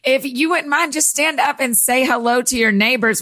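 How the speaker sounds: lightly voiced preacher welcome; a hint of a preacher addressing the congregation. Preacher asking the congregation to greet their neighbors, lightly put-on voice. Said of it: "I'll use my preacher voice".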